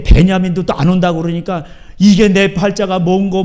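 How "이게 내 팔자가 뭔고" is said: mock wailing. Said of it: "막 이러면서 막 통곡하고".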